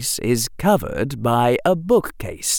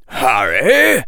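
a loud call across a station; yelling; 2 semitones higher, 5 dB louder than usual. Acted. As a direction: call his name loudly. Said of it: "yelled an older-looking man".

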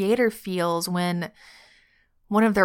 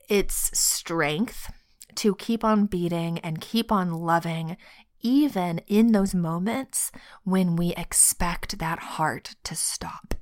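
fighting tears, barely voiced; choked up. Real, not acted. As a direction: voice tight with held-back tears. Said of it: "partly me getting choked up".

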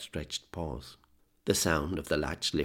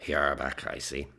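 slurred speech. Acted. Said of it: "he said in a slurred voice".

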